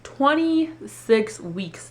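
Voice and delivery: very slow, dazed twenty-six weeks; stunned repeat. Retold or imitated. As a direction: let the number sink in, stunned. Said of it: "this woman tells me".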